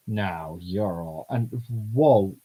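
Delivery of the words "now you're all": robot voice. Acted. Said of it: "robot voice".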